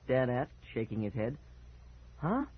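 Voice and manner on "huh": very high, loud outraged protest; cry. Acted. Boy protests Dad's joke, crying out. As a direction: cry out in disbelief. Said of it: "I cried".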